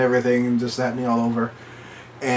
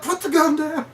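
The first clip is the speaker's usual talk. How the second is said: urgent demand; 3 dB quieter than usual. Retold or imitated. Friends demanding.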